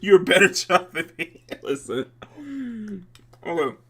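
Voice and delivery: talking through a mouthful of cereal; words round a bite of cereal; mouth full. Real, not acted. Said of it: "I'm eating cereal".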